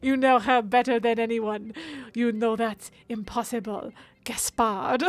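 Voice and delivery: badly faked French accent, settling after a laugh; terrible French accent. Streamer finishing the game dialogue in a terrible French accent. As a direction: struggle on in a shaky attempt at French. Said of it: "my terrible French accent".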